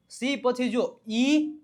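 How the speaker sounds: slow lead-up, ઈ held and rising; attention on ઈ. Shown as a demonstration. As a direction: point out ઈ after સી, slowly, stretching it. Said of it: "ધ્યાન આપજો". (ઈ પર ભાર, ધીમેથી લંબાવીને)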